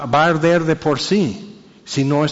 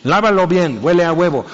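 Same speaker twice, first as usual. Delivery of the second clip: nagging mother; 3 semitones higher, 3 dB louder than usual. Retold or imitated. Mother orders dishwashing.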